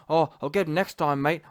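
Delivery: low-pitched mock Australian accent; hammed-up low Antipodean post-fight patter; Joseph Parker. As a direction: send him up in a low Aussie voice. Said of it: "he's talking about".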